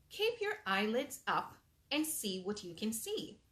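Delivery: lively storybook reading aloud; animated read-aloud for little kids; reading to children. Acted. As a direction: read it like bedtime story time. Reads picture book aloud.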